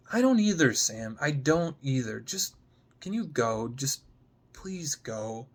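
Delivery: begging him to leave before she breaks. Acted. Gemma breaking off, fading.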